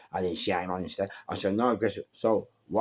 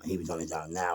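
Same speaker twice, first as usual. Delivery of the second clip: ordinary talk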